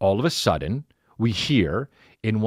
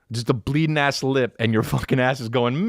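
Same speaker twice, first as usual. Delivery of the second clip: ordinary talk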